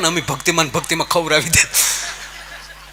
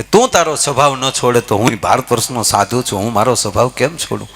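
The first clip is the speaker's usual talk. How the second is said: solemn saint; 3 semitones lower than usual. Retold or imitated. Saint addresses dog at midnight.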